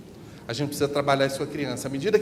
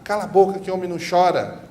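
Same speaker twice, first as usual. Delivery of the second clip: put-on higher, louder scolding of a boy; harsh scolding; 5 semitones higher, 6 dB louder than usual. Adult telling a frightened boy that men don't cry, harsh scolding. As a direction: shut the crying boy down. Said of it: "Ao invés de a criança escutar".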